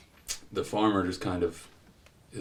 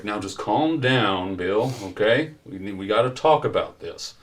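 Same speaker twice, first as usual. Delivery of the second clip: lightly voiced officer talking someone down; police officer pacifying. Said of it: "And he's like".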